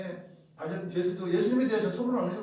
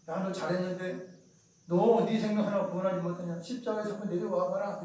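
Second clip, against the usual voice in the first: mocking jeer. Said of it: "비웃으며 말을 하죠".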